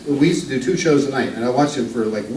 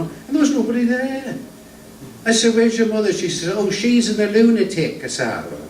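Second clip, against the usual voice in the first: lightly voiced; 4 semitones higher than usual. Introduced old northern comic telling jokes to the crowd, lightly voiced. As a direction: ease into a genial old music-hall comedian.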